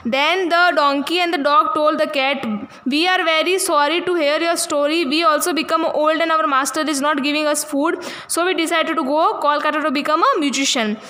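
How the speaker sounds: put-on slow, careful reading aloud for young pupils; slow story reading. A narrator's reading. Teacher reading the English story to her class, slow and careful. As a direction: read each word out slowly for the class.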